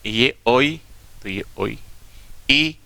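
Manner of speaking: से drawn out very slowly, sound by sound; slow sound breakdown. Shown as a demonstration. Phonetics teacher slowly breaking चॉइस into sounds. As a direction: stretch out the final से slowly. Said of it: "तो देखिए चे".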